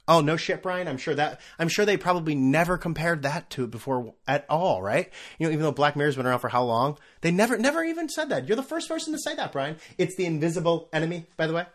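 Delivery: sarcastic self-heckling, climbing high in pitch; mock sarcasm. Host heckling his own obvious observation, sarcastic. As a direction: jeer at yourself, pitch rising to incredulous heights. Mocks himself as a listener would.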